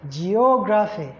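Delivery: "Geography" with O stressed, ge-O-graphy. Shown as a demonstration. Teacher giving an example, O stressed in "Geography". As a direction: lean on the O in "Geography". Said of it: "the O is the one that receives".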